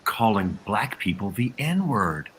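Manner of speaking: slow, drawn-out mock disbelief; facetious shock. Panelist feigning surprise at racist abuse, facetious. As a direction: spell out the outrage slowly, tongue in cheek. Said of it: "that was me being facetious the entire time".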